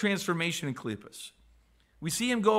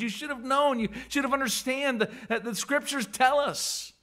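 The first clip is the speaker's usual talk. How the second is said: disappointed Jesus; 5 semitones higher than usual. Acted. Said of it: "a disappointment in Jesus' voice".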